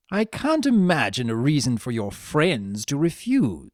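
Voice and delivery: smooth scheming trickster voice; lightly voiced sly Discord. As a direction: coax her, sly and confident.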